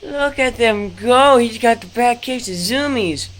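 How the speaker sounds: thrilled, loud and high; cheering the dogs on; excited. Real, not acted. Dogs zooming in the yard.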